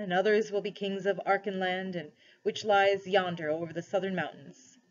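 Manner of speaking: a measured royal proclamation, lightly acted; lightly voiced lion ruler, solemn. Aslan addresses cabby and wife as first rulers, lightly solemn. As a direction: proclaim it with mild lion-king gravity.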